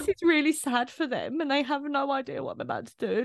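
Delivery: imitating her worried thoughts. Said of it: "'cause I'm like".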